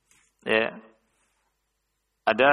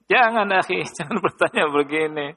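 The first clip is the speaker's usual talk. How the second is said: laughing scolding; 5 semitones higher than usual. Real, not acted. Teasing scolding of a questioner.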